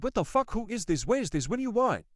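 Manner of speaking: retold angry demands, mildly heated; mock confrontation with an intruder; getting angrier. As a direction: fire off questions, pitch jumping at both ends. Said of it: "I'm getting angrier 'cause".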